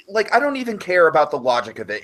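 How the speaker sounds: normal talking voice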